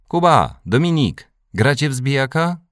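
put-on high, loud boyish call to friends; bright-pitched, eager holler. A narrator's reading. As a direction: shout an invitation across the playground. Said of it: "zawołał Michał".

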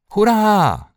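high, loud, drawn-out hurrah; sudden cheer. A narrator's reading. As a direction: burst out cheering. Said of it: "krzyknął nagle Michał".

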